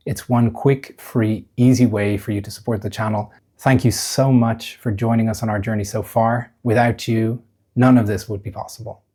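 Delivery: measured podcast host read; scripted channel appeal. Acted. Host asks listeners to subscribe, scripted podcast read. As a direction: stress key words in a polished read.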